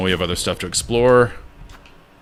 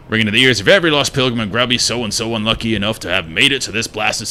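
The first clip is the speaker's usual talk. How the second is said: put-on a bit higher, grumbling, non-southern accent; lightly voiced grump; 3 semitones higher than usual. Streamer rereading the grump's lines in a lightly voiced grumble. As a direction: grumble it like the old keeper.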